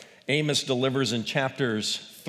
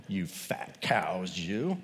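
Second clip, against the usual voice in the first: whispered slowly like a naughty aside; whispered insult; 6 semitones lower, 6 dB quieter, much slower than usual. Retold or imitated. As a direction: hiss the insult under your breath. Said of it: "And he said".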